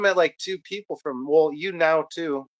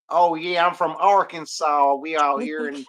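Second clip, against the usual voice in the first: put-on Arkansas accent; slower than usual. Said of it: "they got a pretty thick accent".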